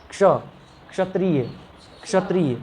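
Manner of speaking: क्षत्रिय with a light k before the sh; careful correct pronunciation. Shown as a demonstration. Teacher models it for the class, careful k-sh onset. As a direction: sound both k and sh in क्षत्रिय. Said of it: "तो क और क्ष".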